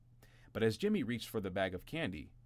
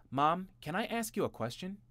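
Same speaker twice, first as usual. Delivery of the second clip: high, louder asking voice; clever brother; 11 semitones higher, 4 dB louder than usual. A narrator's reading. Eldest brother asks mom a question. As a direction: ask sweetly to steer mom.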